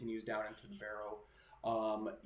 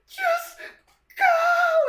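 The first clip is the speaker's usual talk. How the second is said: very high, piercing scream; full-force high ghost scream; ghostly shriek; 16 dB louder than usual. Acted. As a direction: shriek it in torment to drive them away. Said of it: "she shrieks".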